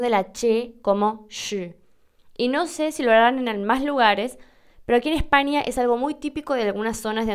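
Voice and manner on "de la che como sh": «che» pronunciada como «sh», lento. Shown as a demonstration. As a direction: decir «sh» alargando el sonido chicheante. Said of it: "algo sobre la pronunciación". (demostrar la che andaluza como sh, despacio)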